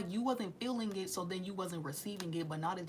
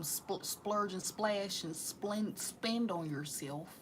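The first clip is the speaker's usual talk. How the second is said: tongue-tied; much slower than usual. Real, not acted. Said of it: "Why am I talking like this?".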